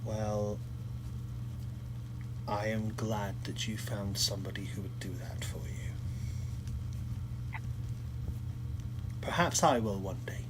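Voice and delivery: soft whispered reply; a quiet wistful whisper. Acted. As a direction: keep it hushed and private. Intimate reply to confession.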